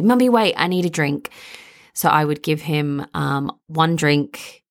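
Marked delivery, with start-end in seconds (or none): 0.0-1.3 put-on toddler stalling at bedtime; mock toddler plea; imitating toddler. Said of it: "he'd say".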